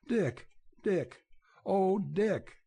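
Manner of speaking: high, tremulous cry of joy. A narrator's reading. Nell running to Dick, crying out with joy. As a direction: call his name as if she can't believe he's back. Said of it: "she cried".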